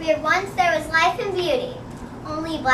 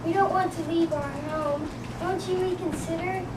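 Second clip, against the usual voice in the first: squeaky voice; 4 dB quieter than usual. Acted. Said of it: "In a squeaky voice, he piped".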